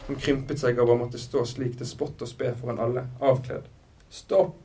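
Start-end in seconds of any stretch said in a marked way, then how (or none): 4.1-4.6 loud, high cry for mercy; acted desperate plea; pleading. A narrator's reading. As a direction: beg loudly for it to stop. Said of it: "ba hun".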